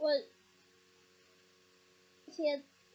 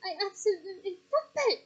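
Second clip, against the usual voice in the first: loud, higher furious command; furious forbidding; 5 semitones higher, 9 dB louder than usual. Acted. Mother forbidding her children, loud and furious. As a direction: lay down the law.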